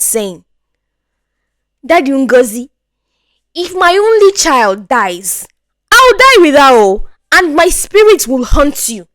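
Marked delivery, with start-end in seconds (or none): 1.9-9.1 higher, desperate wife's plea; mother pleading. Acted. Mother to her husband, desperate pleading. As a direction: beg him, voice breaking high. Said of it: "Her mother pleads with her dad".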